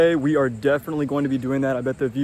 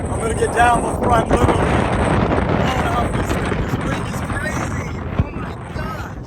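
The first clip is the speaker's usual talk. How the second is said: shouting over wind; 9 semitones higher than usual. Real, not acted. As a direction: yell over the gusts. Windy lighthouse top, leaving fast.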